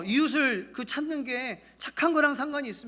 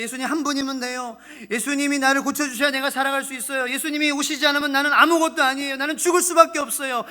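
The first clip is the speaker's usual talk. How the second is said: pleading confession; 4 semitones higher, 6 dB louder than usual. Acted. Sufferers' confession voiced.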